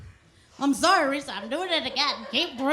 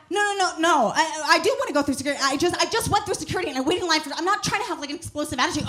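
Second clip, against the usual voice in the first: higher, fast, flustered pleading; flustered protest; 5 semitones higher, 3 dB louder, faster than usual. Retold or imitated. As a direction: rush the words, panicking a little. Flustered explaining to officer.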